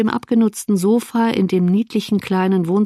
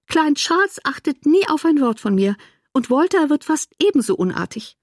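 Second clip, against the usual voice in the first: higher-pitched, put-upon mother; complaining invalid sister; 4 semitones higher than usual. Acted. Mother tells her sister the children plague her, complaining. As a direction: lift the voice in mild exasperation.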